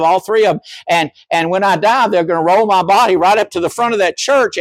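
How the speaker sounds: indignant parishioner. Retold or imitated. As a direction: plead your lifelong ties to the church, wounded. Parishioner's long complaint acted.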